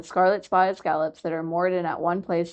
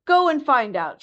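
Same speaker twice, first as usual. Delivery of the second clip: dismissive; 7 semitones higher, 5 dB louder than usual. A narrator's reading. Walrus dismisses seal.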